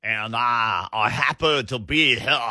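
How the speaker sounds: a hint of a slow Southern rooster drawl; lightly mock the cartoon rooster, slow; slow mock Foghorn Leghorn quote. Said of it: "he transformed into Foghorn Leghorn".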